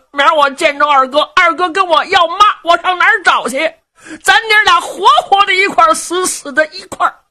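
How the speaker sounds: put-on high, fast, childish voice of a simple young man; simple-minded lad. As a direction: blurt it out like a guileless big kid. (傻小子尖声急促地劝娘)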